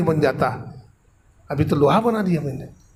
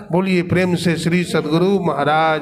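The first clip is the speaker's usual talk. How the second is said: devotional call-out; slower than usual. Real, not acted. Closing call to the congregation.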